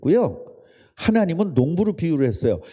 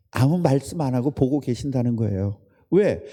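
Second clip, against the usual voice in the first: ordinary talk, nothing marked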